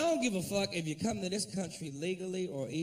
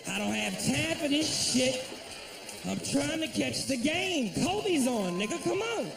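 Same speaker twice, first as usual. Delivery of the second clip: higher, exasperated rush; mock frantic customer; impatient customer; 5 semitones higher than usual. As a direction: hurry him, the game is on. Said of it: "I said".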